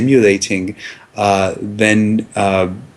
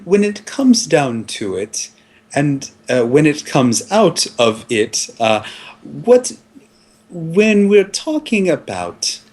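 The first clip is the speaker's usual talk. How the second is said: higher, grandiose lecturing voice; pompous expert; 5 semitones higher than usual. Acted. Filmmaker lecturing the interviewer on sex, grandly higher. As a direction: hold forth like a self-important auteur.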